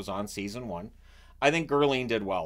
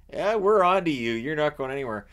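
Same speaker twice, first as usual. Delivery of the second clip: higher, louder smug taunt; smug accusers; 4 semitones higher, 6 dB louder than usual. Retold or imitated. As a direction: gloat that you've caught her. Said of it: "And they're all like".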